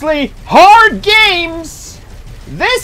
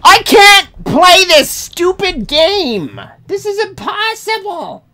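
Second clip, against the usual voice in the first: raging gamer; 7 semitones higher than usual. Real, not acted.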